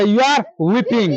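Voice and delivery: slowly, word by word; slow teacher's model sentence; slow model answer. Shown as a demonstration. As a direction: model the English for the class. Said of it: "तो क्या बोलेंगे?".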